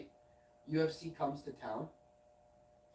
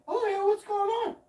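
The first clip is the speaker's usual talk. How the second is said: casual mock greeting; 9 dB louder than usual. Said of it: "And I'm like".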